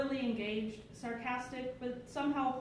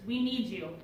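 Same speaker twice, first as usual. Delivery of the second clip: acted nurse's appeal, voice raised; loud request; 5 dB louder than usual. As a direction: press the crowd with a louder plea. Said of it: "made a loud request".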